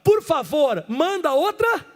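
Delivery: pleading Moses. Acted. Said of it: "E Moisés pediu".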